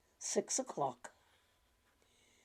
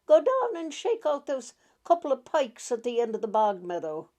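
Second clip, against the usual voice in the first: a grandmother's firm, louder command; ordering; 3 semitones higher, 6 dB louder than usual. Acted. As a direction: bark the order at the servant boy, loud. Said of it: "she ordered".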